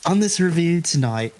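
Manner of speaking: a light put-on Cockney accent. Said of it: "your weird Cockney accent there".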